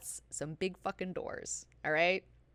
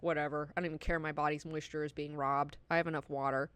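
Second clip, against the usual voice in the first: indifferent; 4 semitones lower, 4 dB quieter, faster than usual. Retold or imitated. Voicing rich people who don't care.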